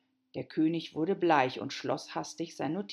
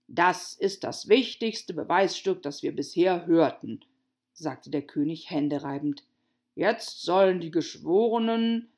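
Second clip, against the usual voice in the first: pompous king voice; 6 dB louder than usual. Acted. King gloating.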